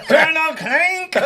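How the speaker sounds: very high, loud laughing cry; laughing exclamation. Acted. Hogan's Heroes fan riffing on "clink me", high laughing shout. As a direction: shout the name through laughter. Mimics old TV show, laughing.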